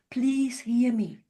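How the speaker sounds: slow, drawn-out appeal; measured, imploring request; gentle plea. Retold or imitated. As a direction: plead slowly to be listened to, without raising the voice. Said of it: "your tone is basically saying".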